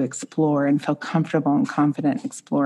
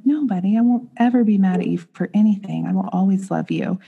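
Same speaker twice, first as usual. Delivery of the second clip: tender reassurance; 3 semitones higher than usual. Retold or imitated. Mother reassuring son at bedtime.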